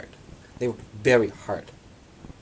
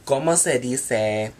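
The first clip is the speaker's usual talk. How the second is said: put-on Spanish accent; 2 semitones higher, 4 dB louder, slower than usual. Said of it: "pretend London with Spanish accent".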